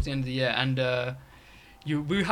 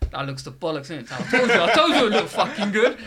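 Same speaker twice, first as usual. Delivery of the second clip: a hint of a gloating friend, louder and laughing at the end; 3 semitones higher, 5 dB louder than usual. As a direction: crow it through laughter. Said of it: "He goes".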